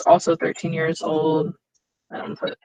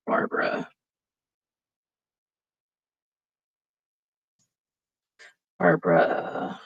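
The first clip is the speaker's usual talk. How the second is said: absent-minded typing voice; 12 semitones lower, 4 dB quieter than usual. Real, not acted. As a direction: say it to yourself as you type it. Typing the name as she says it.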